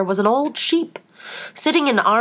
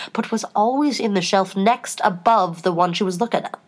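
ordinary delivery, nothing marked

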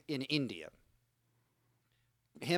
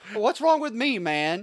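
high, loud mock whine of a rejected guest; a hammed-up pity-party wail; self-pitying guest; 8 semitones higher, 6 dB louder than usual. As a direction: whine it like a sulking hotel guest. Voicing a rejected hotel guest.

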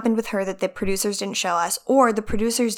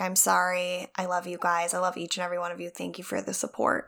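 soft mock sincere speech; 3 semitones lower, 10 dB quieter than usual.

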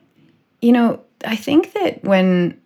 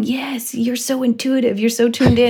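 stoner voice; 6 semitones higher than usual. Retold or imitated. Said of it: "apparently my parents' stoner voice".

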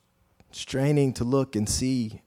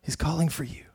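urgent whisper; 4 semitones higher than usual. Acted. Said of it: "And his friends".

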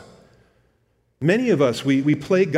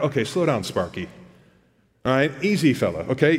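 snarky. Retold or imitated. James telling the boastful planners to ease up, mildly snarky. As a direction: imitate someone snidely reining in an eager talker. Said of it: "he's kinda being really snarky".

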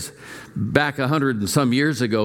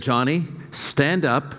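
put-on mother to tantruming child; 3 semitones higher than usual. Mother to her small boy mid-tantrum in the store, firm and higher. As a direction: talk down a little one's tantrum, pitched up. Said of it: "And the mother said".

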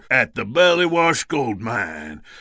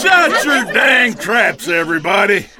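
shouting for order. Acted. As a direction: bellow over the crowd. Judge silencing courtroom.

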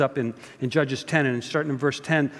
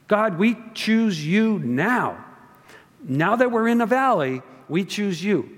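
higher, earnest pleading people; desperate plea; 5 semitones higher than usual. Pretend. Preacher voicing Israel pleading to God, desperate. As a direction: plead that nobody else can save you.

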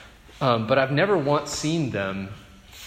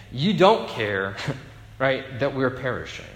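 "You don't care" drawn out slowly; slow statement. Shown as a demonstration. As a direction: lay it out as an accusation. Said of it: "it is a statement".

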